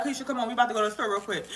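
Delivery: soft, level, eerily calm mom; hushed and steady, like a calm before a storm; scary calm. Retold or imitated. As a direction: coax her quietly, menace underneath. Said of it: "scary calm".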